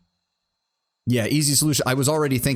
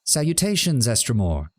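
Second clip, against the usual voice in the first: sing-song voice; 2 semitones higher than usual. Acted. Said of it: "chirps in a sing-song voice".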